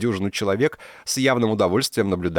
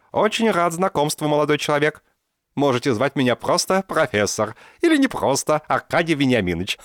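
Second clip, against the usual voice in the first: put-on high, louder cheerful old man; jovial old professor; 9 semitones higher, 4 dB louder than usual. A narrator's reading. Professor introduces himself to Archi, jovial and high. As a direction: pump his hand with delight.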